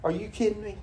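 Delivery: high, incredulous retort; disbelief. Retold or imitated. Friend told about litter, incredulous. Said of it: "He said".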